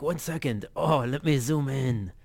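lightly attempted Belgian accent; half-hearted, badly faked Belgian accent; Jean-Claude Van Damme. Retelling the zoom-in scene, bad Belgian accent. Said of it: "I can't do Belgium, by the way".

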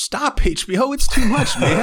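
high, loud protest at HBO; overwhelmed outburst. Real, not acted. Reacting to the soup scene with a high loud outburst. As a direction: cry out that it's too much.

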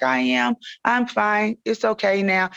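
retold high-pitched protest; insistent reassurance. Hurting patient to her crying aunt, insistent reassurance.

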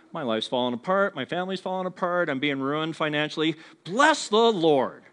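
hammed-up saintly sufferer, laughing at the end; mock pious cheer. Mocking believers who boast of suffering, with a laugh.

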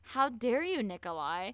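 playfully indignant telling-off; mock outrage. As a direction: pretend to be scandalised at him.

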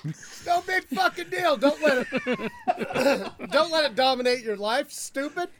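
loud, high, hammed-up tough talk; mock-angry bluster. Comedian brushing off his virus announcement, mock-angry bluster. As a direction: bluster in exaggerated mock outrage.

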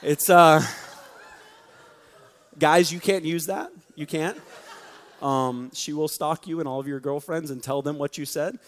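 laughing through the warning. Real, not acted. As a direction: chuckle while teasing the guys. Laughs at own joke.

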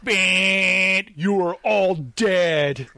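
slow, deadpan game-over call; mock intercom verdict, drawn out; announcer voice. Game announcer declares loss.

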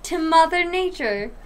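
talking through hiccups. Real, not acted. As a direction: hiccup interrupting the sentence. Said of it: "I hiccuped during fucking".

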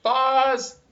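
high, loud robotic shout. Pretend. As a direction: bark it like a machine. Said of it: "you don't like my robot voice".

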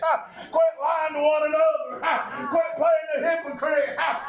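rising, rhythmic sermon chant with breathy uh's; whooping preacher. Acted. Preacher warning his congregation in a chanted, whooping cadence.

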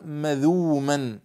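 "مذوما" said slowly with no glottal stop, long u; pronounced without hamza. Shown as a demonstration. Teacher showing students a variant Quran reading, hamza dropped. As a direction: glide straight through "مذوما", no catch before the u. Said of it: "يعني بغير همز".

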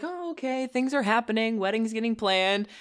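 lightly mocking someone happily unaware; blissfully oblivious. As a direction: play along, none the wiser. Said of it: "lived in sort of blissful ignorance".

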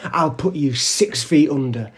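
slow, emphatic tough-guy boast, lightly voiced; imitated threat. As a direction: act out a man claiming his turf. Retelling stranger's threats.

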